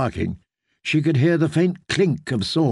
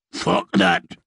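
low dismissive outlaw; 7 semitones lower than usual. A narrator's reading. Outlaw refuses.

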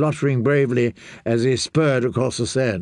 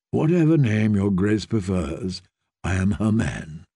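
put-on a gentle young lord bowing to a girl; low courtly knight; 4 semitones lower than usual. A narrator's reading. Knight greets the child queen, low and courtly.

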